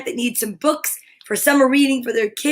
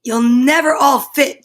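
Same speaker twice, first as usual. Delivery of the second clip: chattering; 5 dB louder than usual. Acted. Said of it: "chattered Harry".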